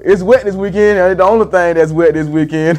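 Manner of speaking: lightly voiced TV weatherman; a hint of a cheesy forecaster. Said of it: "clowning with the weatherman".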